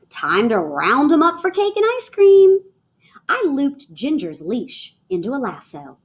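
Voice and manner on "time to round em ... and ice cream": put-on Daddy calls the kids in, higher and louder; hollering. Daddy calling the kids for cake, hollering. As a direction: holler it across the yard. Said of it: "Daddy hollered".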